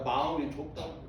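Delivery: preacher echoing 마음이 as an aside; quick soft echo. Shown as a demonstration. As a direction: toss off 마음이 좁다는 거야 quickly under the breath. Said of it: "편협되다는 얘기는".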